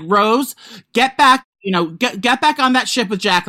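high, exasperated mock order; mock scolding. Viewer telling Rose to return to Jack, mock scolding. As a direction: order a film heroine back, playfully fed up.

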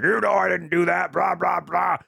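mock drunk dad. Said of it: "He's like".

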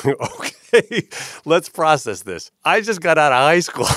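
high, loud mock composure, laughing at himself; retold overwhelmed reaction. Young exec just screamed at in his office, mock overwhelmed. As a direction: pitch it up, slowly trying to take it in.

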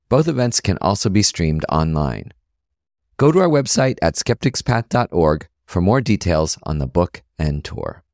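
bright podcast announcer plug; promo read. Acted. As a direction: sell the book like a radio spot. Host reads podcast book promo.

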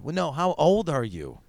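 slowed, mildly pressing mock question; acted interviewer stressing each word slowly; insistent question. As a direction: press politely for a straight answer. Acted casting exchange, first asking.

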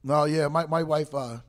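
talking around a mouthful of Twix; chewing while speaking; mouth full. Real, not acted. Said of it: "I'm eating a Twix".

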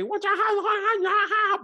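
high, loud caricature shouting; mock foreign gibberish. Imitating a coach forcing a child's split, high gibberish. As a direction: yell nonsense syllables in a put-on voice.

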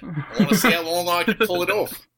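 thick put-on Aussie vowels; Australian accent. Guest hopes to pull off the act, in mock Australian accent. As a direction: stay in the comic Australian accent. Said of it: "just talk in my Australian accent".

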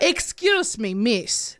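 mock Russian accent; polite lady in a Russian accent. Shown as a demonstration. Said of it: "Your last one is Russian".

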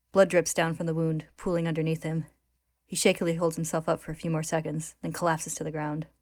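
measured, dramatic read-aloud; story narration. A narrator's reading. Host reads manga recap to co-hosts, story narration.

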